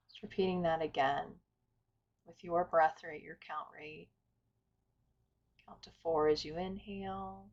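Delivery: calm, unhurried meditation guidance with long pauses; guided meditation. Acted. Teacher inviting listeners to settle and follow the breath, guided meditation. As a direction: guide listeners gently through breath and stillness.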